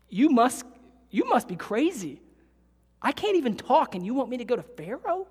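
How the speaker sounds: incredulous protest. Acted. Moses arguing with God.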